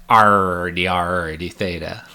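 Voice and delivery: playful pirate "arr" on each R. Shown as a demonstration. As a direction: growl it like a hammy pirate. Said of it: "You get to talk like a pirate".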